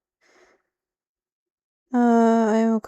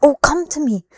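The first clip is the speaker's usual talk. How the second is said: louder, higher mock villain beckoning; a hammed-up taunting come to me; 6 semitones higher, 8 dB louder than usual. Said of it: "taunting in this kind of code way".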